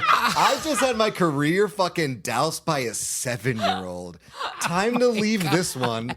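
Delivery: slow and loud through laughter; laughing at being shot down by a kid. Retold or imitated. Telling the hosts about a seven-year-old, slow and loud with laughter. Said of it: "And I was like".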